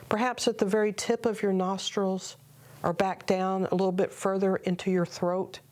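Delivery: calm, measured meditation guide with long pauses; guided meditation. Acted. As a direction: unhurriedly guide listeners into prayerful stillness.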